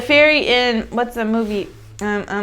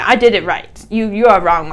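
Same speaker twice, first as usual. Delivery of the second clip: proud and haughty; 7 dB louder than usual. Shown as a demonstration. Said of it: "This is proud and haughty".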